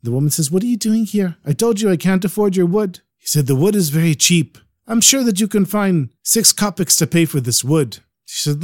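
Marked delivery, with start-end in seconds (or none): 0.5-3.0 put-on higher, annoyed old woman voice; an old woman scolding a pushy seller. Old woman objects again. 3.5-8.0 put-on insistent Ukrainian peddler accent. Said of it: "He speaks with a real Ukrainian accent".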